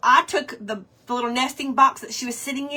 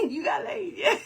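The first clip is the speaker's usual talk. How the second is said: higher, giggling through the question; laughing repeat; 7 semitones higher, 5 dB quieter than usual. Real, not acted. Re-asking the viewer the cheeky joke, giggling. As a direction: squeeze the joke out mid-laugh.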